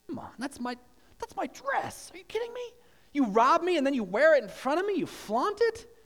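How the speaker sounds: high-pitched indignant complaint; mock upset. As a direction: squeak it out like a wronged churchgoer. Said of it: "You'd probably be a little bit upset".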